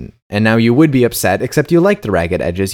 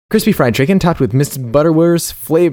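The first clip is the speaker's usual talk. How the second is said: hurried, higher-pitched rattle; fast tongue twister; 5 semitones higher than usual. Shown as a demonstration. Co-host dared a one-dish reading, fast tongue twister. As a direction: race through it until the tongue trips. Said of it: "say that as fast as possible".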